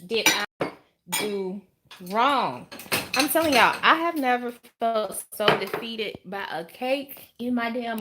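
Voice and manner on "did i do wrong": raised-pitch pleading plea to the Lord; desperate prayer. Retold or imitated. Retelling her cake disaster, imitating a desperate prayer. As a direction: cry out to the Lord, half mock. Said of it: "I was like".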